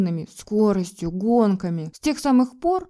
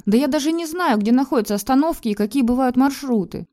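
a touch louder and higher, exasperated; rising irritation; 5 semitones higher, 4 dB louder than usual. A narrator's reading. Wife snapping back at husband, exasperated. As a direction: let the irritation climb. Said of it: "начала заводиться я".

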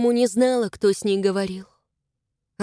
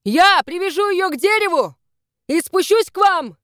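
shouting down; 7 semitones higher, 5 dB louder than usual. Acted. Rescuer keeps shouting down.

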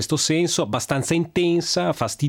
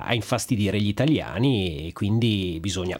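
talking with a blocked nose; stuffy nose from a cold. Real, not acted. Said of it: "Io stesso al naso chiuso".

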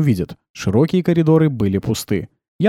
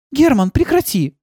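high, slow firm stop; cutting in; 14 semitones higher, slower than usual. A narrator's reading. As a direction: break up the robots' quarrel. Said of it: "вмешалась Милена". (Милена строго вмешивается)

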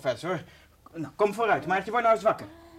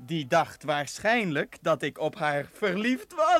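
slow, gloating mock-prince voice; a sneering prince laughing at his dupe; mocking fake prince. Kaspar playing the wicked prince for Maartje, slow and gloating. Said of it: "die stem van doen".

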